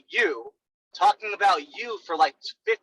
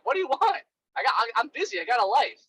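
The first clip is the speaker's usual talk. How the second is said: annoyed; 5 semitones higher than usual. Retold or imitated. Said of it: "I'd be like".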